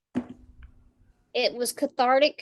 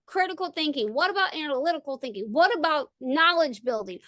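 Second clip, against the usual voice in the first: raised rant; 4 semitones higher than usual. Retold or imitated. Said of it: "I'm going".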